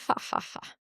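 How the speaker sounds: soft breathy mock laugh. Senior midwife laughing at the crying new mother, mocking. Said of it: "And she laughed at me".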